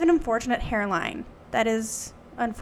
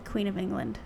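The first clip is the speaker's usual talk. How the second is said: hushed, lower-pitched news of a death; solemn announcement; 3 semitones lower, 9 dB quieter than usual. Pretend. Host announcing the Queen's death, mock-solemn and hushed. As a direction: soften gravely with pauses.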